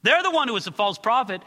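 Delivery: high, loud whiny excuse-maker; mock excuse. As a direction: pass the blame like a guilty kid. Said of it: "point at the false prophet and say".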